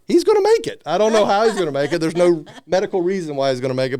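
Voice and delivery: mock nurse, high and loud, sure he'll live; excited conviction. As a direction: burst out that he's going to make it. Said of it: "she was like".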